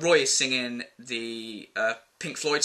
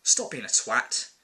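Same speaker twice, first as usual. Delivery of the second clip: mock nudge; 2 semitones lower, slower than usual. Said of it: "give 'em a nudge and go".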